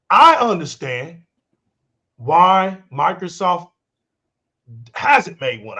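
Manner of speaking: slow, deliberate, with long pauses; walking slow. Real, not acted. Host carefully walking Wilkin through his point, slow and deliberate. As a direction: take it slowly, pausing between phrases. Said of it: "I'm a walk slow with this".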